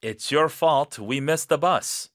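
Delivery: loud blaming accusation. Acted. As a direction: point the finger at them. Blaming cue for role-play.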